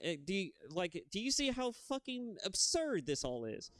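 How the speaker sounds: mock a hero who can't believe his foes; outraged disbelief. Imagined hero's outraged reaction.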